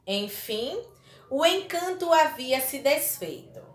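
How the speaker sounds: slow, measured fairy-tale reading; story reading. Acted. Teacher reads Beauty and the Beast excerpt to pupils, story reading. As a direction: read it out slowly, phrase by phrase.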